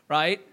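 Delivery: demonstrating a sharp gasp for air; a quick acted intake of breath; imitated gasp. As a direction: mimic a drowning gasp. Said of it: "took a big".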